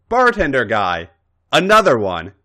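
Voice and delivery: put-on drunk shouting. Drunk woman calling for drink.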